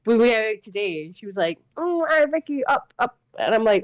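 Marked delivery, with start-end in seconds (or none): 1.8-3.2 put-on high little-girl voice begging to be lifted; imitating toddler niece. Toddler niece asking her aunt to be carried up, high and eager. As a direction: play the toddler reaching up. Niece quoted demanding a lift.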